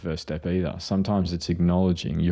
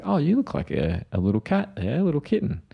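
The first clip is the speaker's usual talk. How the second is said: delighted cooing; 8 semitones higher than usual. Retold or imitated. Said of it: "I was like".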